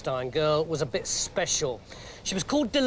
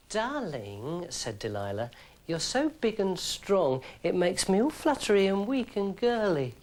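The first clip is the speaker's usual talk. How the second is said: a hint of a coy seductress; lightly voiced, sweet Delilah; flirting Delilah. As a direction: coo it, teasing him.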